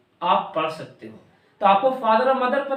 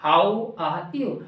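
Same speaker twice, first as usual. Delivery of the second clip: slow, lower accent variant of "How are you?"; accent demo; 5 semitones lower, much slower than usual. Shown as a demonstration. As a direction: draw out "How are you?" in a different accent, rising at the end. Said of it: "pronunciation सबका same ही बोला".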